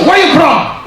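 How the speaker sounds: high, loud, laughing mock of the officer; mocking broken English. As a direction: ham up the officer's bad English. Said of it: "Dia datang".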